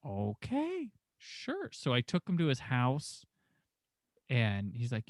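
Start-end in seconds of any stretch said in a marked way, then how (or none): 0.0-1.7 tiny high-pitched, soft agreement; retold uneasy assent. Driver giving in after the grave warning, high meek voice. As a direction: go small and squeaky-high, playing cowed.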